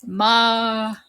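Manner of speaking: "Ma" alone, with an open "ah"; syllable by syllable. Shown as a demonstration. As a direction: sound out "Ma" as a separate syllable. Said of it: "your A's are in capitals".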